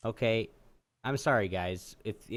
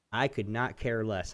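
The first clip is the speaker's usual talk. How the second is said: corrected politely; 3 semitones lower than usual. Retold or imitated. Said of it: "totally changed it up".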